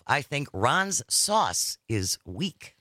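slow, weighty delivery; slow and deliberate. Real, not acted. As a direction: drop it slowly like a punchline. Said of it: "That was like poetry right there".

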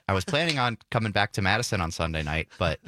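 blocked nose from allergies; stuffy, congested voice. Real, not acted. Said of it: "but I'm still stuffy".

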